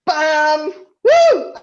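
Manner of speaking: excited whoop. Real, not acted. Posing for the group screenshot.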